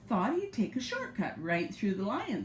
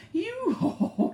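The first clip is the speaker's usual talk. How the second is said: laughing lion voice; mocking lion laugh; 12 semitones higher, 4 dB louder than usual. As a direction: laugh it at the little mouse. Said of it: "started laughing loudly".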